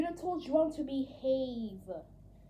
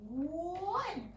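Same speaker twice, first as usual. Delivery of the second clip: spooky countdown; 9 dB quieter, much slower than usual. Acted. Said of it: "I'm going to scare you all".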